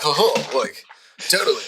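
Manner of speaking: lightly mimicked dude talk; a touch of movie-star bro; Keanu Reeves. Joking with friends about a movie star's talk, light impression. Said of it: "It's Keanu Reeves".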